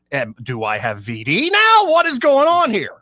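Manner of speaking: slow, then squeaking way up high in mock panic; mock alarm. Man learning she broke three hearts, mock panic. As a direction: act out the panic, climbing into a squeak. Retold shocked thought.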